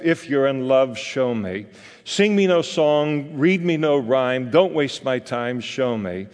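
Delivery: spoken, not sung, lightly voiced Eliza; half-dramatic recitation of a musical number; reciting the song lyrics. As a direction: chant the lyrics with rising frustration. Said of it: "a portion of the song went something like this. She sings".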